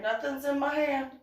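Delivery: high, quick squeak of innocence; defensive denial. Retold or imitated. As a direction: act a badly faked denial. Denies hiding anything.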